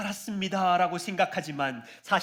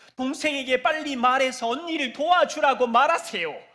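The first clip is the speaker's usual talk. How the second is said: put-on resentful complaining, higher and louder; 7 semitones higher, 6 dB louder than usual. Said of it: "마르다는 지금 원망을 쏟아내고 있어".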